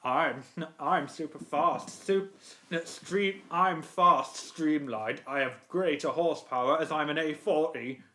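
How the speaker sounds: lightly voiced boastful engine; understated, measured self-importance; Spencer. Engine boasting of horsepower, in a light Spencer voice. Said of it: "What about Spencer?".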